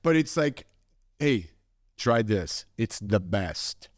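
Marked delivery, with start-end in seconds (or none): 1.2-3.9 lightly voiced proud Italian host, drawn-out ending. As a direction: press food on a guest, slowing on the praise. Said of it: "Italians are very proud".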